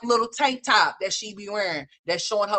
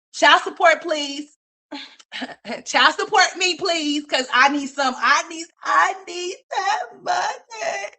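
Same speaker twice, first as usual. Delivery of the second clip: hammed-up crying plea, pitched way up; mock desperate begging; 8 semitones higher, slower than usual. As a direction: beg like your life depends on the money.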